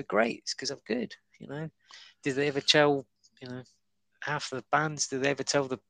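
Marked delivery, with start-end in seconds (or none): 0.0-1.1 higher, slow, self-satisfied comeback; smug comeback. Retold or imitated. Comic answering a noise complaint, smug and slow. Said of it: "You just go".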